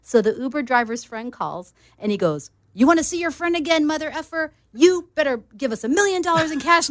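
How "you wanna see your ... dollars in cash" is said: menacing kidnapper. Retold or imitated. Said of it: "this menacing thing he can do".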